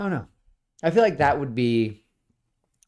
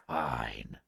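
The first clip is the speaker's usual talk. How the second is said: low, quiet eye-roll fine; begrudging low fine; grudging fine; 12 semitones lower, 9 dB quieter than usual. Acted. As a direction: concede with annoyance. Mice roll their eyes.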